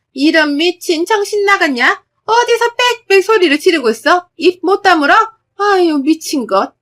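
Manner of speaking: furious shout. Acted. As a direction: shut her up with a roar. Husband shouts her down.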